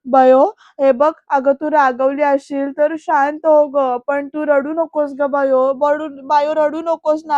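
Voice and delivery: slow, stretched soothing plea; imitated uncle begging her to calm down; mildly acted, drawn-out coaxing; retold tearful pleading. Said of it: "Digu मामा पण रडायला लागतो".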